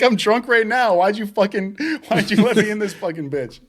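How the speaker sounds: high indignant voice; mock drunk outrage. Hungover worker blaming homeowner, high indignant voice. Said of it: "I'm like".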